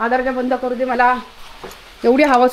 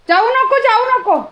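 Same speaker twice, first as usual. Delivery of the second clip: high, louder don't-go call; high pleading to pet; 10 semitones higher, 3 dB louder than usual. Real, not acted. Owner stopping pet from going out, high pleading call.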